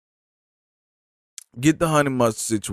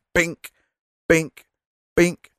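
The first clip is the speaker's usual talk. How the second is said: imitated key taps; 4 semitones higher, slower than usual. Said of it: "hitting the numbers hard".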